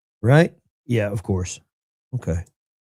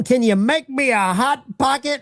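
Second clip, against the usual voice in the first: put-on high pleading child voice; whiny kid voice; 11 semitones higher than usual. Host repeats prank caller's line in a high kid voice. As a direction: beg like a kid asking mom. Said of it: "Mike says".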